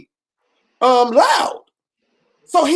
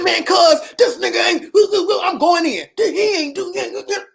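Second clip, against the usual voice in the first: high, fired-up venting to cousin, half laughing; worked-up rant; 6 semitones higher than usual. Retold or imitated. Telling cousin about the unpaid video, high and worked up. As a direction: blow up like you're hot about it. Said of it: "I said".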